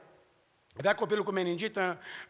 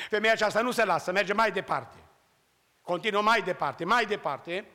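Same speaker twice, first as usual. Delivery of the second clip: emphatic preaching; 4 dB louder than usual. Acted.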